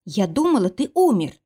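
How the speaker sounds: first take, voice rising and cracking on умер; shaky confession. Acted. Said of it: "Ты повторяешься!".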